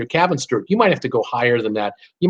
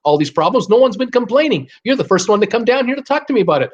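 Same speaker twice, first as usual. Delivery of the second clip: higher-pitched, lightly acted excuse-making manager; mock-innocent manager, pitched up; clueless hotel manager; 4 semitones higher than usual. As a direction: plead ignorance as a surprised hotel manager. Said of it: "The hotel manager has no idea what you're talking about".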